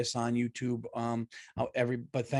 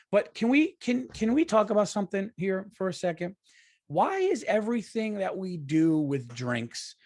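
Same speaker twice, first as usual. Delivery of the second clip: suddenly higher, riled up; worked-up rant; 5 semitones higher than usual. Real, not acted. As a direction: jump into the rant, pitch up. Launching into a rant.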